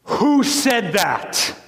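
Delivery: a hint of a furious leader roaring at the heckler; mock roar. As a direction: play Khrushchev's booming challenge, drawn out. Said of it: "and he roared".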